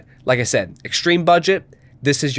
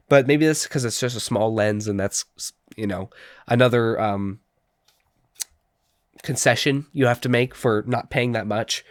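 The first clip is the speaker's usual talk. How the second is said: blocked nose, congested voice; stuffy nose; 2 semitones lower than usual. Real, not acted. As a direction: talk through a stuffy nose. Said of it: "I'm sorry I sound stuffy".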